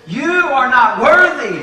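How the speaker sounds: the devil accusing. Acted. The devil telling a believer he is unworthy, slow and heavy. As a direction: lay it down slowly like a verdict. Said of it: "he says".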